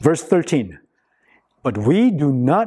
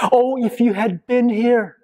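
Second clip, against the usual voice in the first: imitated crying out; 2 semitones higher than usual. Grieving sisters to Jesus at their brother's funeral, mildly acted outcry. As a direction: cry out reproachfully, lightly acted. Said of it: "they were crying out to Jesus".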